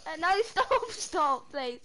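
laughing while tickled; giggling stop stop; being tickled. Real, not acted. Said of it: "Nicole keeps tickling me".

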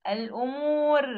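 الأمور slowly, ending on a thin, light R; wrong light ra. Shown as a demonstration. Teacher showing students the mistake, light ra in الأمور. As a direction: say الأمور with the final ر left unthickened. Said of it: "لا، مش أمو".

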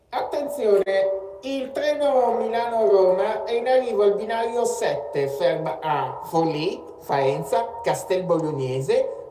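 slow, measured platform announcer voice; train station announcement. Pretend.

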